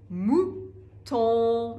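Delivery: موتان ending in a nasal vowel, slowly; موتان را آهسته با پایان تو دماغی بگو. Shown as a demonstration.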